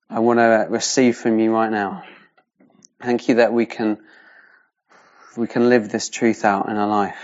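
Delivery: earnest spoken prayer to God. Real, not acted. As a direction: pray sincerely for the group. Leads an opening prayer.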